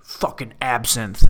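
slow, brooding tough-guy put-on voice; movie burnout. Playing a movie tough guy who can't cry, brooding burnout. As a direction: drag out each line like a hardened burnout. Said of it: "a burnout".

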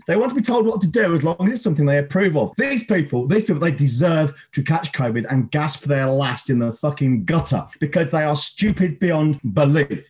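ranting anger. Real, not acted. Host's one-minute hate on anti-maskers, furious. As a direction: spit it out like a timed rant. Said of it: "the one minute hate".

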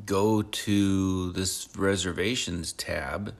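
talking between sips of coffee; coffee in the mouth, words slightly thick; while sipping a drink. Real, not acted. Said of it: "Sorry, I'm drinking my coffee".

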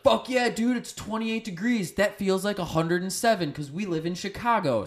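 high-pitched hyped-up Chicagoan impression; excited mock cheering. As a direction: crow it high, like it's a heatwave. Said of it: "a lot of people that are like".

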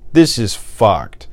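slow, drawn-out and deflated; weary despair. Real, not acted. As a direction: let it sink, slowly and tiredly. Despairing after long pause.

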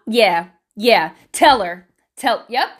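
punchy backing-up interjections; hype man. Acted. Hype man urging her to tell her, punchy backing. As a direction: back your friend up in short bursts. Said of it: "just be your hype man".

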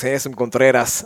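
Handsome Contreras with a rolled Spanish r; Spanish pronunciation. Shown as a demonstration. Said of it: "I said it in Spanish today 'cause I wanna sound cool".

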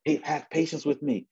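high-pitched plea; begging. Acted. Fellow servant pleading at his creditor's feet, begging. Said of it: "He's begging".

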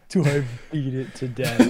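repeating it through laughter, slow; laughing echo. Real, not acted. Friend echoing her mouse question, laughing. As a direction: laugh at the absurd idea. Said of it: "friend echoing, laughing".

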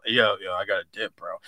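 mumbled self impression. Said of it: "this is me".

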